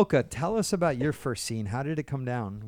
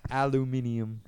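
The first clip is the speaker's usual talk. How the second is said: "Aluminium" in a British accent, al-u-MIN-i-um; British-style "Aluminium" stressed on MIN; English accent; 2 semitones lower than usual. Shown as a demonstration. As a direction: say "Aluminium" the British way with five syllables. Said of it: "aluminum in an English accent".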